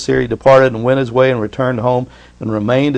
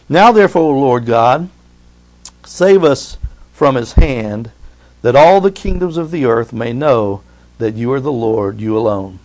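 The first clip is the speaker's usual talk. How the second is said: solemn prayer. Acted. Hezekiah's prayer, slow and low.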